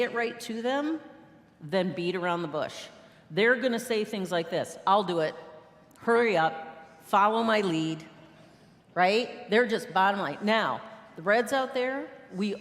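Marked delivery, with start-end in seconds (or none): 4.9-8.0 confident take-charge orders; acted no-nonsense command; bold, bossy. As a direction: play a bossy leader, short firm phrases. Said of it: "they speak bold, bossy, confident words".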